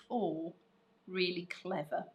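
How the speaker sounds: ordinary talk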